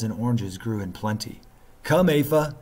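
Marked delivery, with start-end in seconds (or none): 1.8-2.6 higher, louder call to his dog. A narrator's reading. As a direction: call the dog across the sand. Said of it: "he called".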